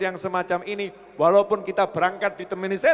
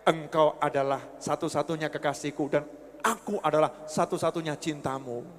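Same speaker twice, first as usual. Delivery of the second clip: sweet talk; 7 semitones lower, 4 dB quieter than usual. Retold or imitated. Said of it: "ngomongnya yang baik-baik".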